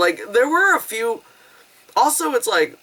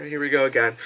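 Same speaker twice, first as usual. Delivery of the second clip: weary; 4 semitones lower, 4 dB quieter, faster than usual. Retold or imitated. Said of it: "my delivery's terrible".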